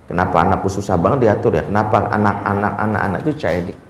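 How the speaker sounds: put-on a weary mom wondering aloud why her kids won't behave; complaining mother. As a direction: grumble quietly about the children. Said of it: "kesalahan mendasar habis ikut kajian parenting adalah".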